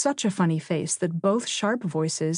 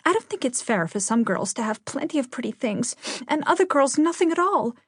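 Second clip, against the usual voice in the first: injured; 7 semitones higher than usual. A narrator's reading. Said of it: "with an injured sniff".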